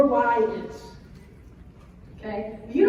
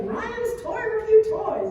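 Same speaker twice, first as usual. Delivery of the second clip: higher, slow mocking product-name voice; mock announcing; 10 semitones higher, 4 dB louder, slower than usual. Mom mocking the Target toy branding, slow and higher. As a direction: read the brand name like a silly ad. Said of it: "it's like".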